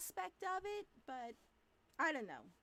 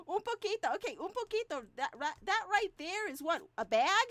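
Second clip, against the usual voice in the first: incredulous; 6 semitones higher, 8 dB louder than usual. Retold or imitated. Incredulous at mom's measuring.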